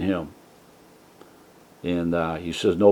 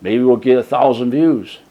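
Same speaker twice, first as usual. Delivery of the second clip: rising, louder amazed wow; retold excitement; 4 semitones higher, 6 dB louder than usual. Vlogger recalling his delight at the video's views, excited. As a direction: marvel at the views taking off. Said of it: "I says".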